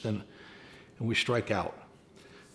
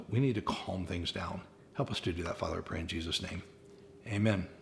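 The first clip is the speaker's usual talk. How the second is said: closing prayer. Acted. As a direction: pray it over the church, hushed and sincere. Pastor leads closing prayer.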